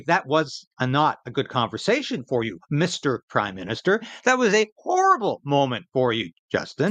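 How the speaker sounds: a hint of a frank interviewer; lightly voiced pretend question to the PM; host pretends to address Trudeau bluntly; mock interviewer. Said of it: "can you not even be objective for a minute and say".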